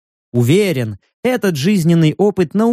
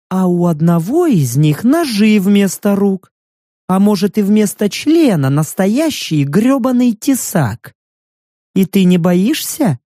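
невинным тоном о жутком; мягко запугивая подругу; наивная девушка; 3 semitones higher than usual. Acted. (наигранно невинный голос)

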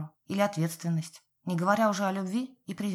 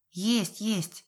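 impatient brush-off; 2 semitones higher than usual. A narrator's reading. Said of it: "нетерпеливо отмахнулась мамуля".

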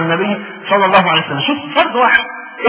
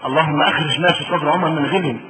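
softer prayer; 4 semitones lower, 4 dB quieter than usual. Shown as a demonstration. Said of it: "ما كان حد فينا نفس الدعوة دي".

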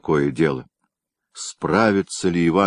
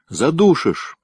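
higher, playfully fake fright; mock frightened cry; 10 semitones higher, 3 dB louder, slower than usual. A narrator's reading. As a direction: yelp as if being smothered, in jest. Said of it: "нарочито испуганным голосом закричал Андрейка". (притворно испуганный вскрик)

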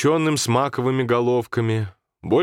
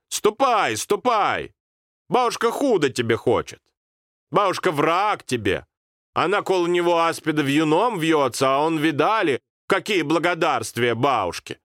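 put-on much higher, bitter old woman; bitter grandmother; 8 semitones higher than usual. Grandmother bitterly sends the boy off, much higher. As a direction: scold with wounded pride.

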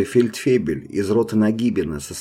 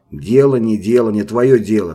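loud cutting shout; shouting corporal; 2 semitones higher, 6 dB louder than usual. Acted. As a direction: snap it back as a loud rebuke. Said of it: "крикнул унтер".

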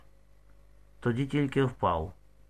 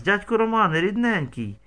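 higher, louder cry of terror; terrified shriek; 7 semitones higher, 3 dB louder than usual. A narrator's reading. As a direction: call out to him in panic. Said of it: "верещала від жаху".

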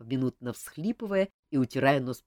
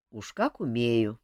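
grumble; 4 semitones lower, 3 dB louder, slower than usual. Acted. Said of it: "проворчал король".

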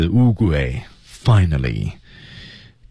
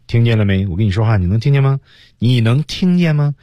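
provoking; 5 semitones higher than usual. Shown as a demonstration. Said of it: "这本身就很挑衅的".

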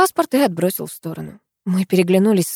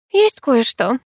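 joyful; 6 semitones higher, 3 dB louder, slower than usual. A narrator's reading. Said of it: "радостно вскочила я".

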